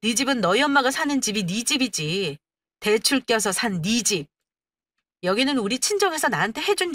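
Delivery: wife arguing back, mildly heated; indignant wife. Acted. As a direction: contradict him point by point, with indignation. Wife argues back at husband. (따지고 드는 아내)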